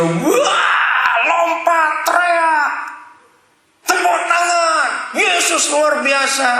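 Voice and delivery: high-pitched, hammed-up worship cheering; mock church shouting. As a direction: act out a rowdy congregation shouting praise. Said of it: "di dalam kita teriak-teriak".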